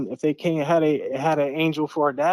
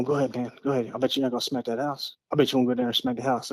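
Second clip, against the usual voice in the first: put-on teasing teenagers; 4 dB quieter, much faster than usual. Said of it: "they're up there going".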